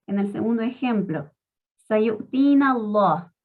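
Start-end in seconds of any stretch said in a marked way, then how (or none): 1.9-3.3 sayu'tina Allah with a thick, full lam; heavy lam. Shown as a demonstration. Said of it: "En vez de decir sayu'tina Allah".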